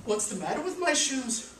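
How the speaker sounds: puzzled Yetta. Acted.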